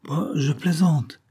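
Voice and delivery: mild caressing reassurance; forced caressing tone. A narrator's reading. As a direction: coax her, slowly and a little forced. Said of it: "en s'efforçant de donner un ton caressant".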